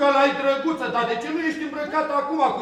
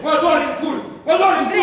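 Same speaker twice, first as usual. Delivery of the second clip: loud, laughing defiance; defiant yell; 2 semitones higher, 5 dB louder than usual. Acted. Actor shouting defiance at the director, laughing. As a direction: throw it back at him with a laugh.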